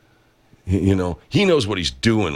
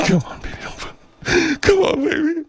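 high coaxing voice. Acted.

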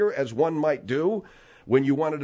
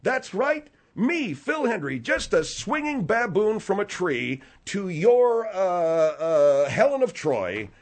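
hammed-up false humility; sarcastic; slower than usual. Host belittles himself before Margaret, sarcastic. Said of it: "you're not very attractive when you are sarcastic".

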